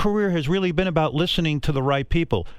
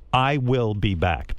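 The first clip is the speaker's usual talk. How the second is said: slow, measured machine reading; computer-like delivery; 3 semitones lower, much slower than usual. Retold or imitated. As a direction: space out every word like a computer. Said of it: "a computer would say".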